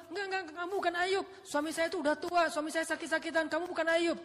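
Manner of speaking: high, loud flat refusal; disbelieving wife. Acted. Wife to the young Ayub, high loud disbelief. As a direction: shout him down in disbelief.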